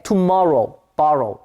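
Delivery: "tomorrow, borrow" as two separate rhyming words; match the ending of "borrow" to "tomorrow"; rhyme demonstration. Shown as a demonstration. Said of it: "이런 식으로 말이야".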